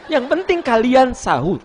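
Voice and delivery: very high, loud hammed-up mother; coy mother. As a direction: comically wave away the thanks in a squeaky pitch. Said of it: "ibu gitu kan". (ibu pura-pura merendah, suara melengking)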